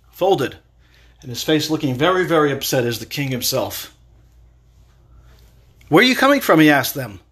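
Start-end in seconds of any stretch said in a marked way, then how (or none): 5.9-6.6 raised, higher-pitched demand; loud, high challenge to latecomers; stern questioning. Acted. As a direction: confront them as an upset king. Stern king confronts returning drunks.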